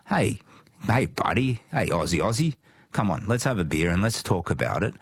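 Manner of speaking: imagined matey chat, lifted opening hey; friendly pub approach. Pretend. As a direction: call lightly to a buddy, then settle. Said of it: "if Australia were my mate".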